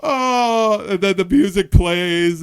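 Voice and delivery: high-pitched laugh-talk; host still laughing as he agrees, high laugh-talk. Real, not acted. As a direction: giggle the words out for real.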